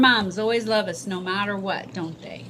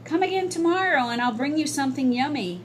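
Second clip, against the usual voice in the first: put-on nice boy voice; 5 semitones higher, faster than usual. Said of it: "explained the nice boy".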